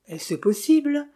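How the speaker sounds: high, slow disbelief; astonished exclamation. A narrator's reading. Innkeeper hearing the guest remembers nothing exclaims, high and astonished. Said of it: "s'exclama l'hôtelier".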